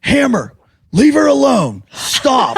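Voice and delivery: high-pitched imitation of ordering someone to stop; mock rescuer's cry. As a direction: act out a hammed-up high plea to back off.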